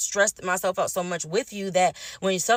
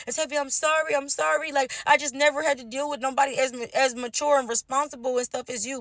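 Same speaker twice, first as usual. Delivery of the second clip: higher-pitched retold pleading; imitated apology; 6 semitones higher than usual. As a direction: mimic a partner saying sorry in a raised pitch. Retold girlfriend's apology after being confronted.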